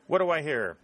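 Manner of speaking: rally the bidders; auctioneer's cry. A narrator's reading. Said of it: "cried Talbot".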